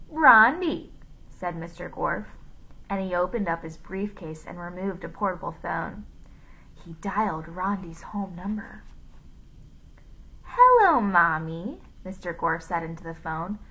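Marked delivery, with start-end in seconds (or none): 0.1-0.9 high, loud villainous call. A narrator's reading. Villain calls out the girl's name. 10.4-11.8 Rondi. A narrator's reading. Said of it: "pretending to be Rondi and using her voice".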